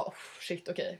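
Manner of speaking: whispered shock. Retold or imitated. Stunned at stranger's photos.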